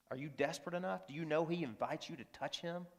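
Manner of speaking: soft, intimate question to the church; hushed question. Real, not acted. Preacher softly asking the congregation, hushed. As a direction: lean in and ask it quietly.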